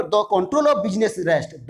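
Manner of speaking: slow, measured reading; unhurried dictation pace. Shown as a demonstration. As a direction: read slowly for those writing. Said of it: "जो भी लिख रहा है बता रहा हूँ".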